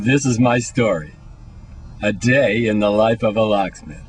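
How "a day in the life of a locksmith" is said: low, portentous title read; mock documentary title card; documentary narrator voice. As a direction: announce it like a film trailer. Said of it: "I don't know why I'm talking like this".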